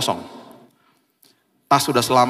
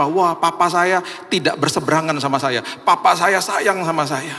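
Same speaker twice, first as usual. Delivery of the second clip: higher-pitched, acted wonder; amazed delight; 4 semitones higher than usual. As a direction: voice a child's happy realization. Children's delighted reaction acted out. (meniru anak yang kagum)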